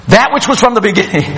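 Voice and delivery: quick, offhand read-out of a letter; casual letter reading. Acted. Recipient reading John's letter aloud, casual and quick. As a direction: read it quickly like everyday mail. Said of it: "It'd be like, "Hey, I just got a letter".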